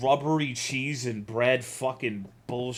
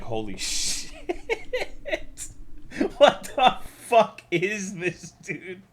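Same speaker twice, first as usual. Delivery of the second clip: half-laughing outrage at the sponsor text; laughing disbelief; 8 semitones higher, slower than usual. Retold or imitated. Reading the ad script, laughing in disbelief. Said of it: "and I'm like".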